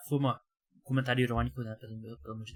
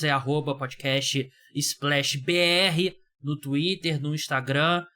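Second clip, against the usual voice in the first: slow, measured promo read; podcast plug; slower than usual. Acted. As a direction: spell out the show's handles slowly. (chamada de podcast, pausada)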